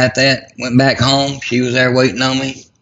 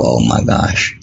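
shocked dismay; 13 semitones lower, slower than usual. Real, not acted. Realizing wife is having stroke.

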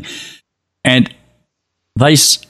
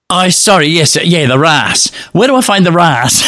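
sheepish apology; 6 semitones higher than usual. Retold or imitated. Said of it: "and I'm going".

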